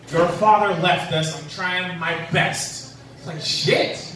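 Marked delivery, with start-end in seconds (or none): 0.1-3.0 scolding mom. Retold or imitated. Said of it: "this mom was scolding her kid".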